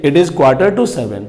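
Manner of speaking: very slow, low teacher dictation of It is quarter to seven; slow British model sentence. Shown as a demonstration. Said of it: "British English में".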